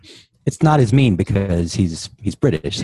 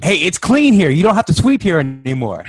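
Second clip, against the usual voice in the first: mock store clerk; 6 semitones higher than usual. Mocking store clerk quote.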